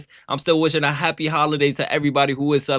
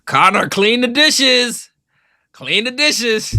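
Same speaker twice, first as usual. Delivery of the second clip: mock bossy wife voice; 10 semitones higher, 4 dB louder, slower than usual. Mock-voicing Caitlin bossing Connor.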